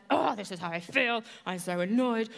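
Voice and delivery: mock whiny complaint to a friend; venting to a friend. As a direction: whine it out like venting to someone. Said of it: "we can be like".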